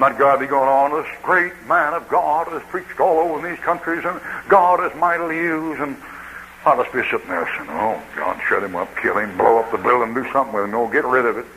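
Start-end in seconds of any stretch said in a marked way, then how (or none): 0.9-5.8 slightly raised, lightly hammed-up platform praise; mock glowing introduction. Platform host praising the visiting preacher, mock glowing. 7.7-11.5 low, lightly played private grumble; mock desperate inner plea. Preacher sitting through his own introduction, mock desperate.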